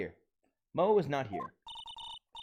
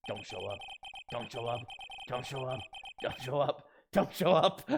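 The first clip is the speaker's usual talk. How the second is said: repeated plea. Real, not acted. Willing someone not to appear.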